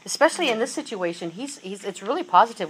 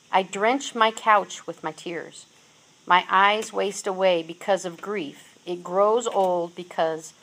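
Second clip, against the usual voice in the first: a louder, earnest reading of the psalm; scripture reading; 4 dB louder than usual. Acted. Preacher reading Psalm six to the congregation, earnest. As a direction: read the lament like a public prayer.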